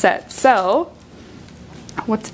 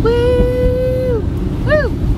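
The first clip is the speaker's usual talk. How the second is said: excited cheer; 13 semitones higher, 4 dB louder than usual. Real, not acted. Cheering on the way home.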